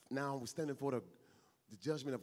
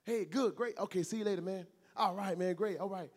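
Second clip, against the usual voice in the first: cliche brush-off exchange; 4 dB louder than usual. Shown as a demonstration. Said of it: "That's so cliche and empty and vain".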